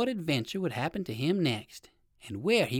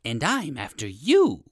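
slow, lightly voiced alligator threat; a hint of storybook menace; menacing alligator; 2 semitones lower, 3 dB louder than usual. A narrator's reading. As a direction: draw it out at the prey. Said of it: "cried the alligator".

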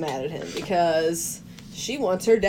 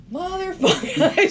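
mock muttered curse; 11 semitones higher than usual. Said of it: "And Bernie is like".

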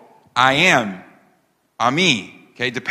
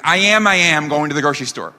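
quick, silly doubled start; mock unnatural talk; faster than usual. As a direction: parody an absurd everyday announcement. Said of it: "that's not how you talk".

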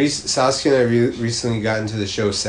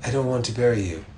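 Alfred Pennyworth impression; 5 dB quieter than usual. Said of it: "That was my Martin Kessler, uh, Alfred Pennyworth impression".

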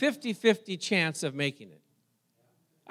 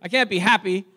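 mock mad; 3 semitones higher, 5 dB louder than usual. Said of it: "I started getting happy".

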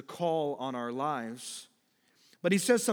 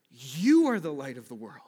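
louder, YOU driven home; emphatic exhortation; 5 dB louder than usual. Acted. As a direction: proclaim it with force, stressing "You". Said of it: "He gives this emphatic exhortation".

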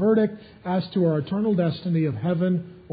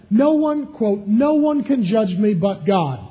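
indignant; 3 semitones higher, 4 dB louder, slower than usual. Retold or imitated. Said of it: "She got a little bit indignant".

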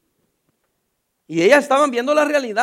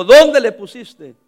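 loud slow question; 10 dB louder, much slower than usual. A narrator's reading. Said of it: "Y dijo".

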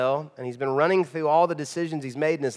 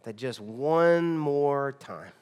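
low, soft, slow begging, trailing off; humble plea; 6 semitones lower, 6 dB quieter than usual. Retold or imitated. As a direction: beg God for one last chance, nearly fading out. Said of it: "Humble Samson".

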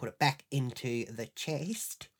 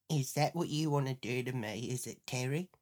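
pointed accusation; 3 semitones lower, 4 dB quieter than usual. Retold or imitated. First, low accusing take.

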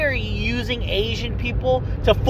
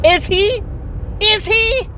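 mock surprise; 14 semitones higher, 3 dB louder, slower than usual. Mock questioning after racism jab.

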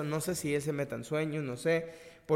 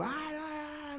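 desperate cry; 11 semitones higher, 7 dB quieter, much slower than usual. Retold or imitated. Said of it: "y así como gritando".

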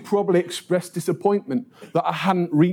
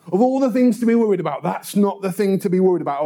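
quick, higher-pitched dismissal; dismissive; 3 semitones higher, faster than usual. Retold or imitated. People dismissing a friend's shared worries, dismissive. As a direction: rattle off a brush-off. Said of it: "they dismiss them out of hand".

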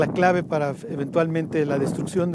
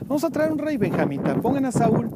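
eager crowd; 6 semitones higher than usual. Retold or imitated. People voiced choosing king.

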